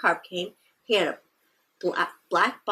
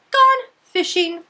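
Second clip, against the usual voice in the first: note read aloud; 8 semitones higher, 5 dB louder than usual. A narrator's reading.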